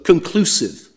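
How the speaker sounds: "conclusive" lifted and leaned on, set apart; stress on conclusive. Shown as a demonstration. Barrister reading the statute to the judges, leaning on "conclusive". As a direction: hit the word "conclusive" hard. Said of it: "I emphasise this word".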